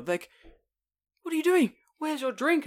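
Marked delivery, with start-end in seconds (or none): 1.2-2.7 high, loud friendly shop owner; imitating shop owners. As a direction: call out like a jolly host.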